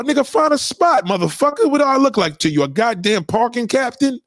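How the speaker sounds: high, irritated retort at a friend; annoyed snap. Acted. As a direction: snap back like you've been asked one time too many. Snapping at friend asking parking.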